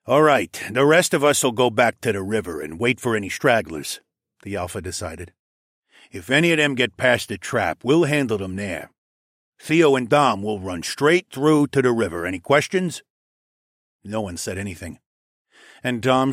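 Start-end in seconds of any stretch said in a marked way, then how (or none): 0.0-4.0 lightly voiced wolf-pack alpha; Mael. 6.1-13.0 lightly voiced wolf-pack alpha; Mael.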